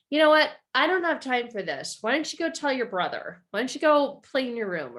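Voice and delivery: put-on fed-up father snapping at his child; dad snaps. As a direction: cut the kid off impatiently. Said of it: "dad snaps and says".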